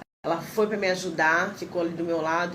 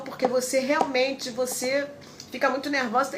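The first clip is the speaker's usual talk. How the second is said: lightly voiced nurse; 7 semitones higher than usual. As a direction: spell out her nervousness like a stern nurse. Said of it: "ela falou".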